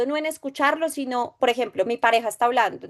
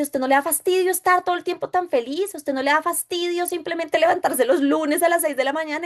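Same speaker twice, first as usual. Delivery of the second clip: irritated professor; 5 semitones higher than usual. Retold or imitated. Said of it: "Y me dice".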